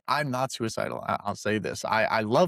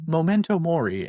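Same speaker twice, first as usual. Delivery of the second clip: plain Anglicized "Memento mori", higher pitched; whitewashed accent; 4 semitones higher, 3 dB louder than usual. Shown as a demonstration. Host contrasts his own version with co-host's, whitewashed accent. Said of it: "I give the whitewash version of".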